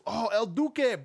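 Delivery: ordinary talk, nothing marked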